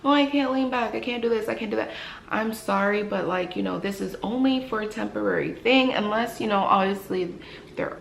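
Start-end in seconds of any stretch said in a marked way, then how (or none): 0.0-1.9 mock whiny patient complaint; lightly imitating a complaining patient. Hygienist mimicking patients who complain in the chair, mild whine. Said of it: "they'll complain".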